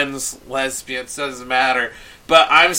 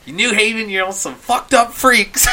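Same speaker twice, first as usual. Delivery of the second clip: mock stage shout; 8 semitones higher, 5 dB louder than usual. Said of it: "She's like".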